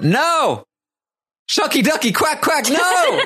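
high, laughing mock dismay; Akbar's catchphrase. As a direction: cry it out, laughing. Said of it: "I wrote".

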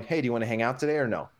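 rapid, breezy throwaway question; offhand casual ask. Retold or imitated. Guy's text as he hears it himself, quick and casual. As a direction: rattle it off casually, no edge. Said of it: "in his head, he's just going".

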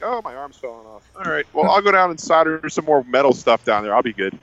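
mock nonchalance; too casual. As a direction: shrug off a disaster in an offhand voice. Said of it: "Now he's like".

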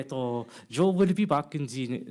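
hammed-up French accent, slow; mock French accent, drawn out. Shown as a demonstration. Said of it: "with this French accent".

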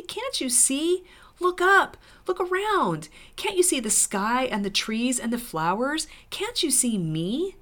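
put-on high, urgent girl's plea; pleading. A narrator's reading. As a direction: urge them to see, voice lifted high. Lucy pleads with blind dwarves.

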